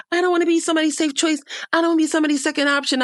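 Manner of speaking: high, rushed imitation of her protesting; mock complaint. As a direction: mimic a girl's rapid high-pitched complaint. Acting out her fast, high complaint.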